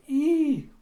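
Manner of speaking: high, loud held "ee" squeal; imitated explosion screech. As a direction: squeal the noise of shattering windows. Imitated noise of exploding windows.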